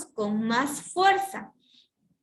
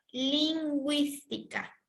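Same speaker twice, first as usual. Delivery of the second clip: slow dictation; 2 semitones higher, 4 dB quieter, slower than usual. Shown as a demonstration. Slowly dictates the keyword.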